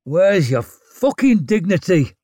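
loud angry snarl. A narrator's reading. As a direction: snarl it in contempt. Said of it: "he snarled".

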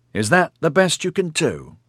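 high, mocking taunt. A narrator's reading. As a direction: jeer at them from above. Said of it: "Eddie taunted".

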